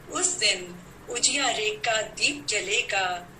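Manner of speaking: measured, declaimed verse with pauses between phrases; poem recital. Acted. Poet to fellow poets on Vijayadashami, declaimed festival verse. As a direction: recite it line by line to a poetry gathering.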